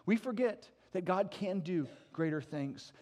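ordinary delivery

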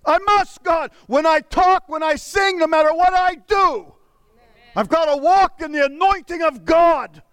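a hungry cry for anointing; crazed plea. Retold or imitated. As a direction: beg God with fervor. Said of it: "sought God crazily saying".

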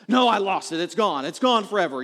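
imitating a melodramatic son; mock despair, all is lost; dramatic kid. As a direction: insist like an overdramatic child. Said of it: "kids aren't dramatic at all".

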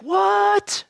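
a high, startled What?; shocked what. Retold or imitated. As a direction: squeak out a mock shocked What?. Listener's shocked reaction.

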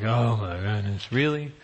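mild mock exasperation; eye-rolling. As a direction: sigh it out like a put-upon parent. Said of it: "rolling your eyes, like".

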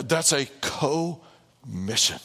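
"co-mission" with the first syllable hit and split off; slow "co-mission", co stressed. Shown as a demonstration. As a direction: say "co-mission" with weight on co, a small break before mission. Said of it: "with the emphasis on that first little two, uh, letters".

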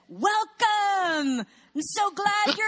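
high, loud, booming welcome; exploding greeter. Retold or imitated. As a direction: burst out in an overjoyed welcome at the door. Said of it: "He's Middle Eastern. He explodes when people come".

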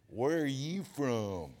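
slow, stretched Southern drawl with a laugh; lightly imitating her drawl; drawled Phil. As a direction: draw out the name lazily. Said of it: "She said".

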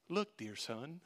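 soft, gentle dear son; tenderly, to the angry son; gentle father. Retold or imitated. A father gently calming his resentful older son, tender and soft. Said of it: "I could just hear this gentleness in his voice".

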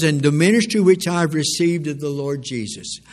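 loud, driving pulpit delivery; booming preaching. Real, not acted. Preacher to congregation, quoting Paul in a loud booming voice. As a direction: throw the scripture out to the hall. Preacher reads Paul's words.

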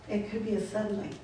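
hushed afterthought; quiet echo. Shown as a demonstration. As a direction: let the words fall away softly as an echo. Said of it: "repeated line".

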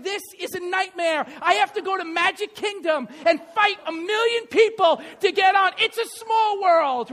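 loud, high exasperated complaint; mock despair, loud and high; exasperated rant. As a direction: vent it like a tired, fed-up dad. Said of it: "I'm like".

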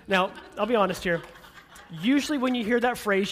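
amused, laughing loudly. Real, not acted. Laughs while speaking.

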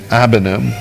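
"abanim" with the opening A barely sounded; light initial A. Shown as a demonstration. Preacher showing the Hebrew word for children, "abanim" with a light first A. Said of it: "the A is almost silent".

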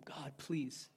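plea fading to very soft, broken by long pauses; weeping prayer. Retold or imitated. Praying at the wheel for a stranger, weeping prayer. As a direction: re-enact a hushed, earnest intercession. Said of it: "I'm praying for him".

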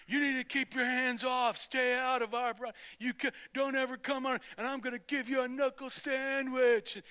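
lightly voiced playground bully threatening; bully's threat.

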